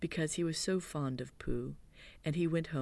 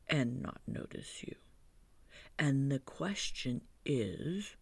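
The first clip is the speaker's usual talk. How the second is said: lightly voiced Pooh, hushed and thoughtful; Pooh's hushed voice. Pooh explaining honey plan to Christopher Robin, hushed.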